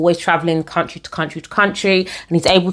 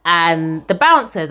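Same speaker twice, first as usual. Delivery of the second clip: ordinary delivery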